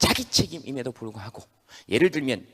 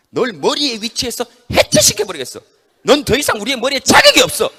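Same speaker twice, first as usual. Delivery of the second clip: loud, high declaration; angry verdict; 9 semitones higher, 11 dB louder than usual. Acted. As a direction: sentence the head sternly. Organs expelling the head. (머리를 쫓아내는 단호한 외침)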